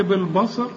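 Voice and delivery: بالبصر with the second ب darkened; wrongly heavy ba. Shown as a demonstration. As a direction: thicken the ب before ص in بالبصر. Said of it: "إنما التانية باء".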